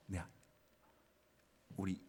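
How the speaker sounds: ordinary delivery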